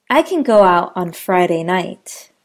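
"can" weak, sentence flows past it; unstressed can. Shown as a demonstration. Teacher repeating the can sentence, "can" unstressed. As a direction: say "can" lightly. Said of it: "Listen for the can and can't".

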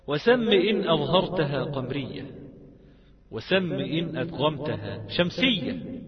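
measured recital of a teaching poem; verse recitation. Shown as a demonstration. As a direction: recite the lines evenly, phrase by phrase. وفي هذا يقول الإمام.

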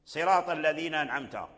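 أنعمت said without a clear nun; nun dropped. Shown as a demonstration. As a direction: show the faulty أنعمت, nun lost. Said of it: "هذه القراءة باطلة ولحن".

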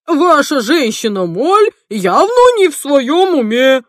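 high and loud; a loud, high indignant outcry; alarmed outburst. Acted. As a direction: blurt out the alarm. Sir Oswald's alarmed outburst.

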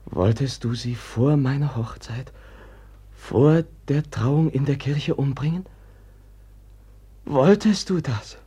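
angry accusation. Acted. Brother confronts Pawin about the killing, growing angry. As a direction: press him harder each time.

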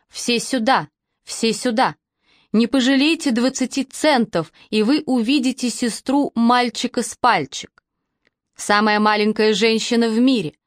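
hammed-up fairground barker call; barking out to a crowd; loud carnival barker. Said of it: "голосом балаганного зазывалы ... орать во весь голос". (зазывала на ярмарке)

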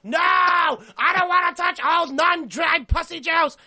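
high, loud hammed-up disgust; mock disgusted shout. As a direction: yell it out in fake revulsion. Mock disgust about rosary.

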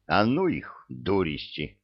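irritated grumble. Acted. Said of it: "раздражённо буркнула центральная".

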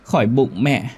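put-on high, slow, crying child's voice; wailing ghost children. A narrator's reading. Ghost children wailing to their mother about the pain. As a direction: sob out the pain like a little ghost. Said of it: "hai đứa gào lên khóc lóc".

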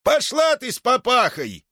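put-on high, gruff old man's retort; old man snaps at woman; snapping back. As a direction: bite her head off. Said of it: "огрызнулся".

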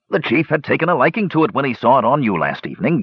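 dwarf hurrying through his explanation; rapid. A narrator's reading. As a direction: run it all together without a pause. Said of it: "continued Dugan rapidly".

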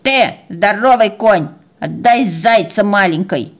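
slow, emphatic scolding; reproachful cat. Acted. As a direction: lean on each word to shame the big one. Cat scolds the big dog. (с нажимом стыдит)

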